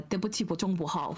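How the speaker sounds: fast, careful learner's Mandarin; foreigner speaking mandarin. Shown as a demonstration. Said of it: "I learnt some words in Chinese".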